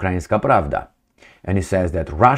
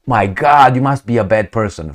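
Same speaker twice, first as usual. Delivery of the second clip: mock outrage; 2 semitones higher, 3 dB louder than usual.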